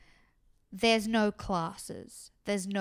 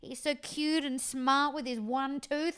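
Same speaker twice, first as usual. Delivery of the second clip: put-on slow, higher cooing over a small child; doting baby talk; 3 semitones higher than usual. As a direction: coo at him like a proud grandparent. Producers gushing over little Alex.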